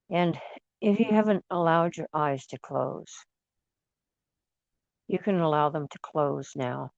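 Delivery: calm meditation guide, long pauses between phrases; guided meditation. Real, not acted. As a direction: ease them gently into closing their eyes. Leads listeners into meditation.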